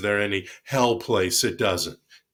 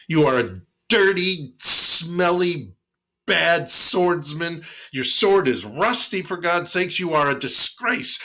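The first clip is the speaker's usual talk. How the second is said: higher, louder scornful insults; utmost disdain; 7 semitones higher, 4 dB louder than usual. Acted. Monk scorns the samurai to provoke him, contemptuous. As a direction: sneer down at the mighty warrior. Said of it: "with the utmost disdain".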